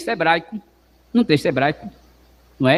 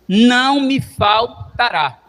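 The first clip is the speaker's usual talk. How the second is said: fervent climax; 3 semitones higher, much slower than usual. Acted. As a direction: lift it to a climax. Psalm recited.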